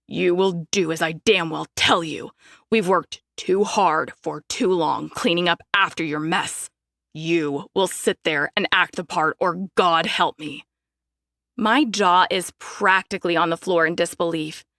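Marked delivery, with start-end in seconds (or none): 0.1-10.6 a touch lower, menacing father; low hiss. Acted. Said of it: "drops his voice to a low hiss".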